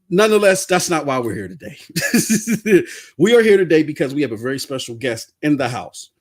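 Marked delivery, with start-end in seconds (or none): none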